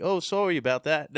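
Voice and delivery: high, mock-Canadian apology in a muddled Australian accent; airy apology in a mixed-up Australian-Canadian accent. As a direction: put on a botched Canadian accent, half Australian. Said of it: "I did, like, a mixed Australian accent there".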